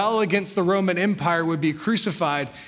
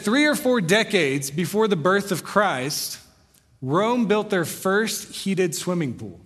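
slow, weighty reading of the book's opening; slow quoted reading; slower than usual. Retold or imitated. Pastor quoting the historian's book to the congregation, slow and deliberate. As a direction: read each word slowly as if quoting the book. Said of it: "He said".

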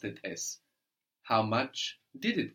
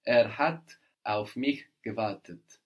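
slow model sentence; 4 dB louder than usual. Shown as a demonstration. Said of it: "very good".

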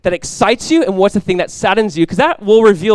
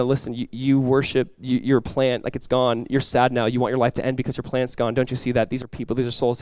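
soft, low and gentle rebuke; God speaking softly; 5 semitones lower, 6 dB quieter than usual. Retold or imitated. God gently rebuking Jonah, softer and lower. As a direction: hush it down like a quiet father. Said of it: "God's revealing to Jonah".

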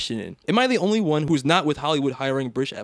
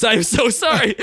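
mock apology; 9 semitones higher, 6 dB louder than usual. Mock apology for late episode.

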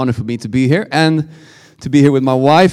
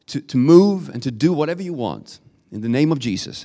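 earnest spoken prayer, softening after the opening. Real, not acted. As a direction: lead the congregation in prayer. Leads congregation in prayer.

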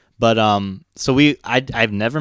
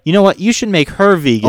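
mock eager vegan; 7 semitones higher, 4 dB louder than usual. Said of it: "And then she's like".

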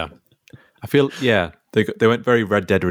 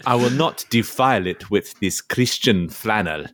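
Viking voice. Acted. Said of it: "I'll be Ivor".

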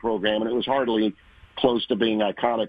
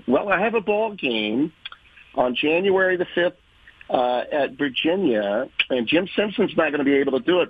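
put-on Long Island accent; 5 semitones higher than usual. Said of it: "she had a very thick Long Island accent".

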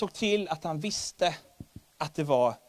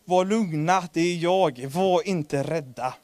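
Jesus lightly voiced in a ringing Gothenburg accent, a bit louder; 4 dB louder, slower than usual. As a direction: reassure the frightened disciples in a jokey Gothenburg accent. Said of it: "på klingande göteborgska". (klingande göteborgska)

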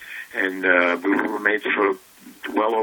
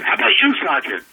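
much higher, pompous officer voice calling on a soldier; Jonathan Winters as colonel; 12 semitones higher, 4 dB louder, faster than usual. Retold or imitated. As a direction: boom it out like a vain old colonel. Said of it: "And then he goes".

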